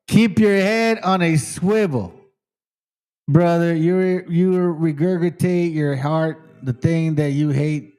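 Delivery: drawn-out, measured reading of someone's message; deliberate mock reading. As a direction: read the quote slowly, word by word. Reads out a commenter's message.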